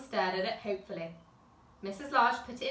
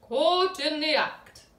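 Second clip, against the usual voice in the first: slow, higher, louder teasing; gleeful gotcha; 6 semitones higher, 8 dB louder, much slower than usual. A narrator's reading. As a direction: savour catching her out. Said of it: "said Mister Large".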